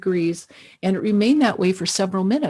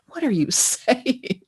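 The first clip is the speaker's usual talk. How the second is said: laughing disbelief. Retold or imitated. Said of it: "I did a double take".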